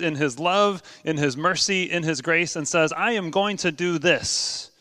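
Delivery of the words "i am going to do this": slow, deliberate solemn promise; tegas dan mantap. Acted. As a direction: give each word its weight. God's promise restated, slow and deliberate.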